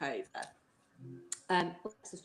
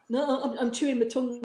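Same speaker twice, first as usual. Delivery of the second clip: put-on higher cheeky kid excuse; cheeky child voice; 5 semitones higher, 4 dB louder than usual. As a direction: play the sulky pupil. Acting pupil's cheeky excuse.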